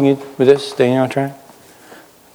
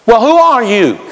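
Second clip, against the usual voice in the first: high-pitched exasperated question; baffled demand; 9 semitones higher, 4 dB louder than usual. Acted. Authorities questioning John after two denials, baffled demand. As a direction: press for an answer in acted bafflement. Interrogators losing patience with John.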